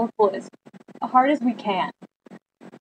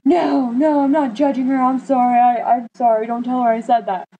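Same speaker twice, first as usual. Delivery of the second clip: nervously backpedaling; flustered apology; 2 semitones higher than usual. Retold or imitated. Dad flustered apology quoted.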